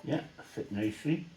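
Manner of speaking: talking around a paintbrush in mouth; mouth full. Real, not acted. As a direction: mouth full, words slightly muffled. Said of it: "Sorry, I have paintbrush in my mouth there".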